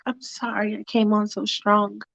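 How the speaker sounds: soft, sheepish apology; apologetic woman. Acted. Allison apologizing to Michael, soft and sheepish. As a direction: say it quietly, subdued. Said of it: "And she's like".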